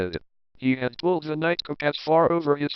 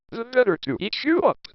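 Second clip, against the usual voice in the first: lightly voiced pouncing wolf; 9 semitones higher than usual. A narrator's reading.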